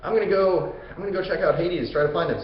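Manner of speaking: high-pitched puzzled hero; Theseus. Retold or imitated. Theseus wonders where his missing friend is, puzzled. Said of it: "Theseus is like".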